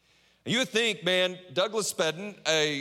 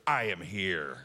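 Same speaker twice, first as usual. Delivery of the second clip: put-on strong-willed kid; 7 semitones lower, slower than usual. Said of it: "I'm talking strong. I'm, I've had one kid".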